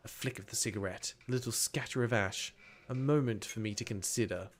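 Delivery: soft, suspenseful scene-setting; story narration. A narrator's reading. Narrator marks the spy's pause, soft narration. Reads the game's narration aloud.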